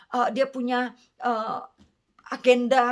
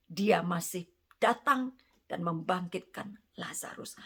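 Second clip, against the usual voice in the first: dramatic whisper; 4 semitones lower, 5 dB quieter than usual. Acted. Preacher drops to dramatic hush.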